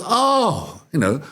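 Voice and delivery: high, effusive thanks; grateful seller. Acted. Camel seller thanking the buyer, high and effusive. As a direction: gush with gratitude to the honest buyer.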